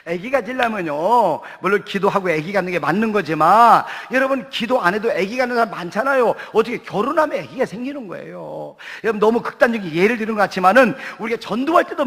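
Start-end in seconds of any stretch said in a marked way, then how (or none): none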